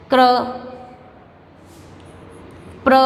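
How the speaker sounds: क्र, प्र with a light r after the consonant. Shown as a demonstration. Teacher showing the sign, क्र, प्र with light r. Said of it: "हल्का सा र का उच्चारण देना है".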